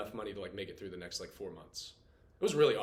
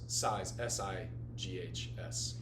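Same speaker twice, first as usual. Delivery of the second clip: slow, letter-by-letter spelling of sighs; correcting a misread word, slowly spelled; 4 semitones lower, 6 dB quieter, much slower than usual. Shown as a demonstration. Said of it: "That's what I meant to write".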